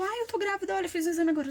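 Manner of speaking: replaying the surprised reveal to a husband; retold excited announcement. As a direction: blurt it out as if just startled. Retold breaking news to husband.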